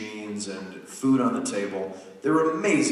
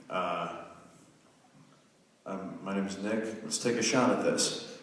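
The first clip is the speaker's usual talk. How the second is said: modest audition greeting; 5 semitones lower, 7 dB quieter than usual. Retold or imitated. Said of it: "I'm like".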